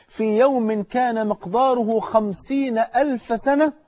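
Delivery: slow, drawn-out recited verse; Quran recitation. Acted. Preacher quoting God on Judgement Day, solemn recitation. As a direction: recite it slowly, stretching the long vowels.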